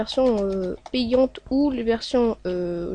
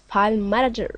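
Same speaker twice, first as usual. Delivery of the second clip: English words in a French speaker's accent; showy English accent. Real, not acted. French tutorial maker showing off his English, showy English accent. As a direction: pronounce it with a proudly attempted English accent. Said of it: "j'ai un accent magnifique".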